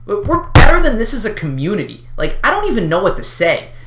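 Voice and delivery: loud exasperated outburst; wild unhinged ranting. Real, not acted. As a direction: shout it out in frustration. Outraged rant at own community.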